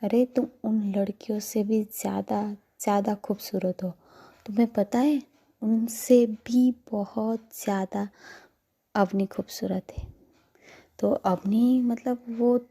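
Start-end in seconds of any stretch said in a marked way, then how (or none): 0.0-10.1 smiling reassurance. Acted. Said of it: "छोटी सी smile करती है और कहती है".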